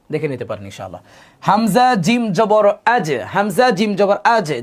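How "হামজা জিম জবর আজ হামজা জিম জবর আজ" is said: slow spelling drill. Shown as a demonstration. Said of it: "কলকলা করে পড়ব".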